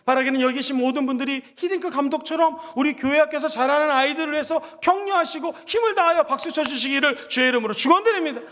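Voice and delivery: usual speaking voice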